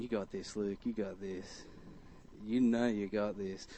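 low, hushed self-encouragement; inner pep talk. Retold or imitated. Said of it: "in the back of my mind".

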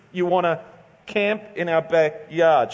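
lightly posh, a hint of upper-class; a touch of a posh sister-in-law. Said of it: "in a posh voice".

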